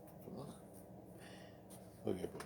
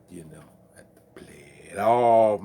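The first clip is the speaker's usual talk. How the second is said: whispered aside; 10 dB louder than usual. Real, not acted. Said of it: "stuck lips sometimes".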